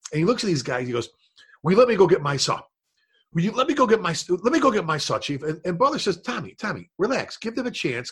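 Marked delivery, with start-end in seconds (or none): 1.6-5.4 insistent, repeated mock plea; imitating passionate pleading. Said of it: "just full of passion". 6.2-8.1 soft retold reassurance; calming. Retold chief calming an impatient man.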